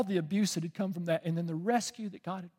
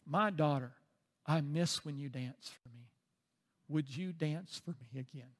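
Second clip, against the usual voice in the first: soft, gentle fatherly request; tender plea; 5 dB quieter than usual. Retold or imitated. Preacher voices God calling his daughter back, tender plea. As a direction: ask softly, with pauses between phrases.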